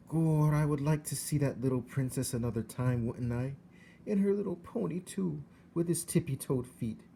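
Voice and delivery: put-on high, rough country girl voice; dreamy young servant girl voice; Mig's voice. A narrator's reading. Mig voiced in story.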